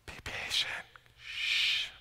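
unvoiced hush and shh; whispered shush. Telling himself to be patient, whispered shh. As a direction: shush yourself quietly.

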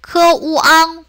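크우앙 split into 크, 우, 앙; level, separated syllables in 크우앙; sounded out separately. Shown as a demonstration. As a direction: break 크우앙 apart for learners. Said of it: "똑같이 분리해서".

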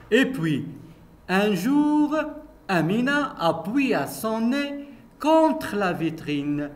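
lively read-aloud narration for pupils; story reading. A narrator's reading. Teacher reading a story to her pupils, lively narration. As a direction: tell the story brightly to the class.

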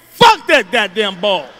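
normal talking voice

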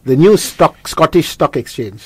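put-on British-sounding accent. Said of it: "he sounds intelligent with that accent".

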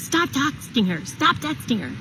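quiet, slow, repeated firmly; hushed quoted command. Retold or imitated. Husband, woken, dismisses her.

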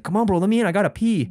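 retold desperate plea, lightly hammed up; imitated pleading. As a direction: act out a guy urgently begging. Retold man begging at car door.

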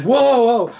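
high, loud retold "whoa"; alarmed. Owner pulling mink back from a hand, alarmed. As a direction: act out halting a lunging pet. Retold stopping mink's attack.

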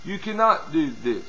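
quiet, coaxing imitation; soft seducing talk. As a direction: coax them softly, as the tempters do. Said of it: "this is how they talk".

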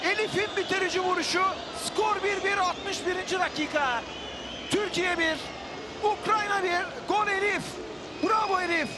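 screaming football commentator. Real, not acted. Goal call, commentator erupts.

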